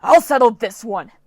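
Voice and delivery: loud screamed threat; screaming. Acted. Storm spirit seizing Leo, furious scream. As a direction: scream it in fury. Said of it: "Dylan screamed".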